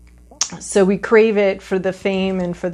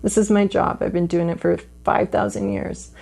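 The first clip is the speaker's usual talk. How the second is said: mock indignant; 5 dB quieter than usual. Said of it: "she's like".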